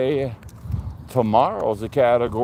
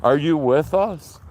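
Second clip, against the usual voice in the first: paranormal investigator; 4 semitones higher than usual. Pretend. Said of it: "You sound like a paranormal investigator".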